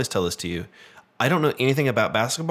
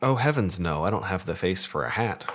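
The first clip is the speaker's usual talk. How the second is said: posh role-play voice. Acted. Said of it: "be silly and role play".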